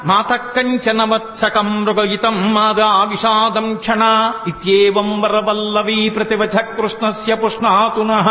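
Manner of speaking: slow measured Sanskrit recitation; verse recitation. Shown as a demonstration. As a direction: recite the shloka deliberately.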